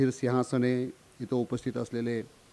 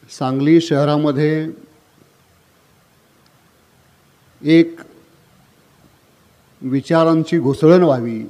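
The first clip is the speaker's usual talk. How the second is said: louder, raised public-speech delivery with long pauses; formal public oratory; 3 semitones higher, 11 dB louder than usual. Real, not acted. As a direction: address the hall forcefully, pausing after each phrase.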